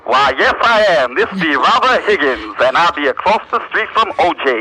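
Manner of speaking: slow, pompous fake reporter; put-on reporter voice. Prank caller fooling the news producer in a put-on reporter voice. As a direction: drawl it like a stuffy correspondent. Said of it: "I come up with this voice".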